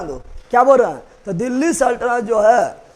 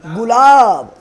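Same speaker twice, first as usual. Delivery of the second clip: louder teaching call with the song phrase; loud mnemonic; 4 dB louder than usual. Shown as a demonstration. Teacher calling the class to attention, loud. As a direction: belt out गुलाब जैसन खिलल बारू to grab the class. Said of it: "यहाँ ध्यान दो".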